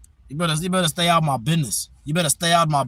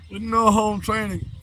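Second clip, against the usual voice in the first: high, drawn-out put-on voice; teasing high-pitched scolding; mock high voice; 5 semitones higher, slower than usual. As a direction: repeat it slowly in a silly high pitch.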